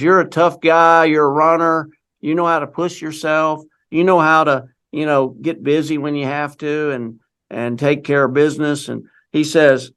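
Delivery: rally him like a halftime coach; fired-up pep talk. Retold or imitated. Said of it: "he let it fly".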